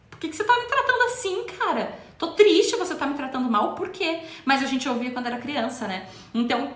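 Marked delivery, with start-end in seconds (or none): 0.1-4.2 higher, hurt and puzzled protest; hurt adult's complaint. Retold or imitated. An adult scolded like a child, hurt protest. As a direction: ask why, wounded and confused. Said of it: "A pessoa olha pra você e fala".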